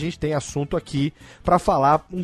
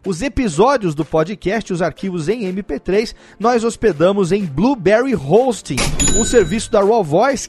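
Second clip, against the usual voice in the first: upbeat sponsor read; 4 semitones higher than usual. Acted. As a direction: sell it like a radio ad.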